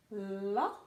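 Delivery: "La" with a short, open o; teacher modelling the syllable "La"; short vowel sound. Shown as a demonstration. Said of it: "So short sound o".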